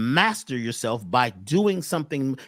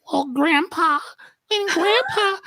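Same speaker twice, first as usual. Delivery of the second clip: high sobbing voice, much higher; crying voice; 13 semitones higher, slower than usual. Shown as a demonstration. Demonstrating a client telling her story through tears. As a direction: act out a client sobbing about grandpa. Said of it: "like this".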